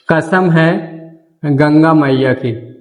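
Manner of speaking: कसम है गंगा मैया की dictated slowly word by word; slow, deliberate dictation. Shown as a demonstration. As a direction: spell it out slowly for the class to write. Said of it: "लिख सकते हो".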